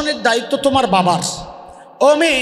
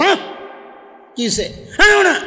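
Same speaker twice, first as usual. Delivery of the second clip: put-on sulky child; 6 semitones higher, faster than usual. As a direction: whine it like a pouting kid. Sulking child refuses hundred taka.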